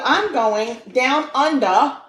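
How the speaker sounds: playful, put-on Aussie accent, drawn out; Australian accent. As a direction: say it slowly in a mock Australian accent. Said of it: "that's a really good accent right there".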